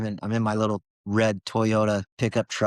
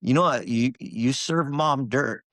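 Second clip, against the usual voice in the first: retold yell at God; 4 semitones higher than usual. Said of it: "I remember yelling at God".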